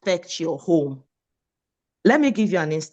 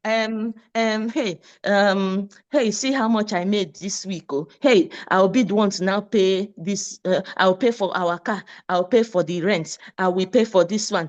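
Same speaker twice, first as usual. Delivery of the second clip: mock bragging wife; 3 semitones higher than usual. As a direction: gloat a bit, like a wife who out-earns him. Spouse rubbing earnings in partner's face.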